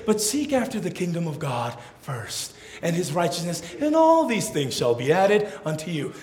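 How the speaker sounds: gentle, unforced scripture voice; kind, loving Jesus. Acted. Kind Jesus inviting his followers, gentle and loving. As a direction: say it kindly, without any command. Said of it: "we hear the kind, loving Jesus say".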